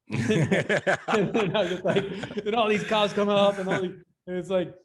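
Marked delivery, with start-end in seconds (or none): 0.1-3.8 tra le risate, parole spezzate dal ridere; si piega dal ridere mentre racconta; laughing. Real, not acted.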